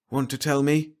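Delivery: gently. Acted. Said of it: "he said gently".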